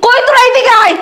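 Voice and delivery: mock furious yelling with laughs breaking through; hammed-up rage at the groom; angry bride.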